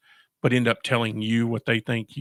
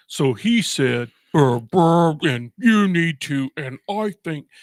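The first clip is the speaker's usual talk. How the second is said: imitating boss; 3 semitones higher, 6 dB louder, slower than usual. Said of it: "he's like".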